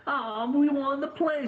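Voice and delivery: put-on high, squeaky kid cheering; child voice. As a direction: play a delighted little kid. GM voices orphan kids.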